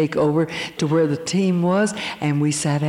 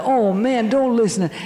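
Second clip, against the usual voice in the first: whiny tempter voice; 6 semitones higher than usual. Retold or imitated. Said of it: "another voice".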